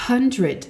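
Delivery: hundred with weight on HUN, ending dropped; stress the first syllable. Shown as a demonstration. Teacher showing pupils where hundred takes its stress. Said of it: "accentuer la première syllabe de".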